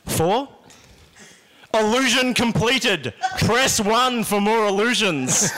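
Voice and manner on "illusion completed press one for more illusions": slow robotic menu voice; automated phone menu. Pretend. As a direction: read it like an automated line.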